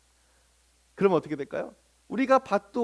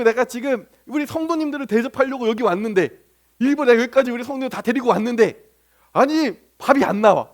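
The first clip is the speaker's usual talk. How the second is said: indignant complaint, building louder; mild acted anger; 3 semitones higher, 4 dB louder than usual. Hungry pastor who brought the congregation to eat, mildly angry. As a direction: protest as if personally wronged. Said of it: "화가 나죠".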